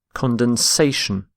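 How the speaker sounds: condensation stressed on SA, con-den-SA-tion; stress shift shown. Shown as a demonstration. Teacher showing students the stress in condensation, clear demo. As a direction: land the stress on the third syllable of condensation, SA. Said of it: "this shift in stress from condense".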